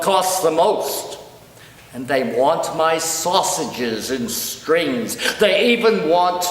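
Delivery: dramatic verse in a pig's words, lightly voiced; measured mock-serious lament; comic poem recital. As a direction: recite each grievance deliberately, pausing for laughs.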